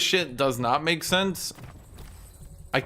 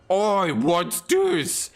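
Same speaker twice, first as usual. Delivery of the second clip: slow, higher goofy orc; 6 semitones higher, 3 dB louder, much slower than usual. Retold or imitated. Orc stumbling on a hidden skeleton, slow higher drawl. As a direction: drag it out like a dim orc spotting something. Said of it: "And some orc is like".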